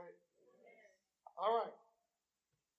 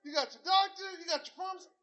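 excited teasing; 6 semitones higher, 4 dB louder than usual. Retold or imitated. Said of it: "I say".

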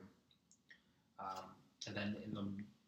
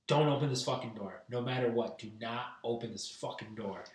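retold firm order. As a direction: lay down the law, as retold. Retold urgent order to girlfriend's sister.

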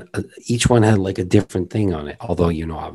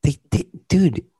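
excited; 13 semitones higher, 6 dB louder than usual. Real, not acted. Excited joke about show.

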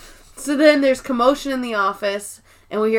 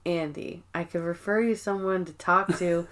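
gentle concern; 4 semitones lower, 9 dB quieter than usual. Retold or imitated. Toby gently offering help.

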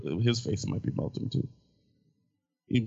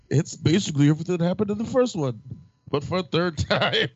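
laughing; 8 semitones higher than usual. Real, not acted. Laughs while explaining.

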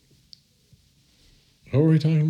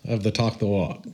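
big sing-song announcer pitch, higher; overplayed promo voice, high and bouncy; exaggerated cartoon intonation; 3 semitones higher than usual. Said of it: "Why are you talking like that?".

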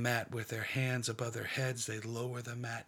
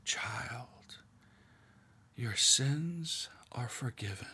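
gentle forgiveness; slower than usual. Acted. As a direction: lay the words down tenderly, slowly. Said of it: "There's no fanfare. There's no inordinate energy".

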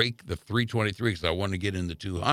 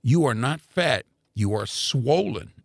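quoting the doctor; slower than usual. Retold or imitated. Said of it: "these were his words".

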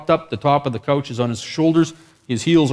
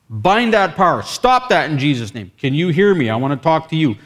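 louder, urgent acted orders; forceful command; 3 semitones higher, 5 dB louder than usual. Minister calling through the screaming to the man, forceful. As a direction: command firmly over someone else's noise. Re-enacts rebuke over the screaming.

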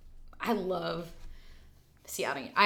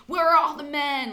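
the same line again, higher and louder; louder frantic repeat; 9 semitones higher, 9 dB louder than usual. Retold or imitated. The guest quotes her character going crazy, building to frantic. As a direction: push the repeat into near hysteria. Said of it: "she's like".

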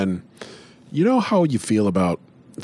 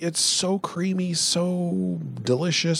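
raised, dreamy food praise; high gushing voice; 8 semitones higher than usual. Acted. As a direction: swoon over it, pitched up. Sam gushing about pizza.

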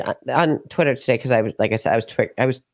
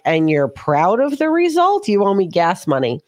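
sarcastic; 5 semitones higher than usual. Retold or imitated. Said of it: "I was like".

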